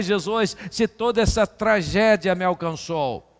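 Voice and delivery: impassioned sermon plea; preaching lament. Acted. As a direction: cry out each question to Jesus. Preacher's lament litany, repeated plea.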